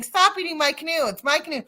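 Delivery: half-voiced mock scream at a bear. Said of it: "screaming at the top of her lungs".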